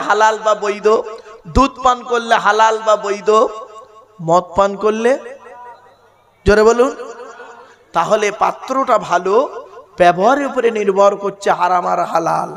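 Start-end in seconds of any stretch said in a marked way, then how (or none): 6.5-6.9 louder, rising call; loud call to crowd. Real, not acted. Asking crowd to shout answer.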